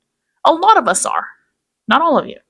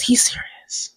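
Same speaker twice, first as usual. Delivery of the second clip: whispered, mock grave; mock serious; 7 dB quieter, slower than usual. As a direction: pretend to be solemn. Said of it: "let me take this more serious".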